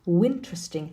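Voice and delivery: "winteresting", interesting started with a w; linked W sound. Shown as a demonstration. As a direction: put a w glide at the front of "winteresting". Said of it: "interesting really becomes winteresting".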